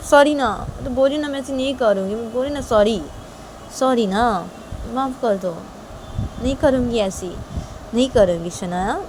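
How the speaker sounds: apologetic coaxing, pitch lifted; pleading Tisha. Acted. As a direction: plead lightly for forgiveness. Tisha begs forgiveness.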